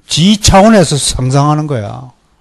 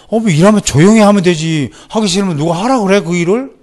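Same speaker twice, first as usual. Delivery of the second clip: mildly hammed-up grumbling, higher pitch; 6 semitones higher than usual. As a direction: imitate a resentful helper muttering complaints. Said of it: "하면서 투덜대". (투덜대는 흉내, 높은 목소리)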